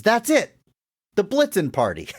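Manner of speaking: high, excited eureka cry, imitated; excited recall. Forgetful man finally gets the party's name, retold with excitement. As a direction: pitch leaps up as the name finally comes back.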